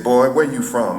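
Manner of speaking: lightly imitated Alabama accent. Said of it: "in her Alabama accent".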